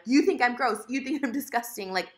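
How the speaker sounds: mildly hammed-up wounded accusation; self-mocking, exaggerated upset; dramatized angry outburst. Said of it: "I'm dramatize things".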